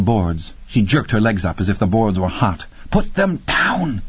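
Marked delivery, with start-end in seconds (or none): 2.9-4.0 slow, high, strained hiss; drawn-out, tense command; hissed order. A narrator's reading. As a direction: hiss each word at them. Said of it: "he hissed at her".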